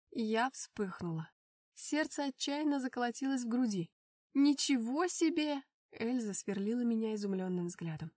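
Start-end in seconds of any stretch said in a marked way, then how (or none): 4.3-5.6 a loud, slow gasp of amazement; surprised. Acted. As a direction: stretch it out in astonishment. Эльза изумлена приглашением. (изумлённо)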